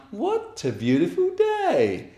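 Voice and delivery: lilting high chant; cheerful high story chant; high sing-song. Pretend. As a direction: sing it out brightly to kids. Sing-song bear hunt chant.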